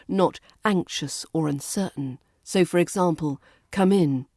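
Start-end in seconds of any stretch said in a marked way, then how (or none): 3.7-4.3 "Come in." falling, firm and confident; falling intonation. Shown as a demonstration. English teacher demonstrating firm commands, falling tone on "Come in.". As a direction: drop the pitch on "Come in." so it sounds finished. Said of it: "you use a falling intonation at the end for a".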